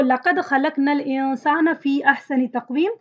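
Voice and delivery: fast, flowing recitation of the verse; Quran recitation. Shown as a demonstration. Teacher reciting the next example ayah, quick melodic recitation. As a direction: recite the ayah in one smooth breath.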